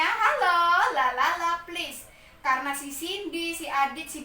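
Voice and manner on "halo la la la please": calling noisy class. Acted. Teacher quiets noisy Cindy, Adit and Budi, calling out. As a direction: hush a rowdy class.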